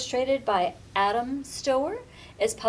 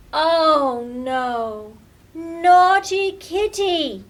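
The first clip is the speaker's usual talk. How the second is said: loud, exasperated cry then slow scold; fed-up child shouting at her pet; 5 semitones higher, 10 dB louder, much slower than usual. Acted. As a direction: groan oh no, then slowly scold Naughty Kitty. Lily discovers new mischief.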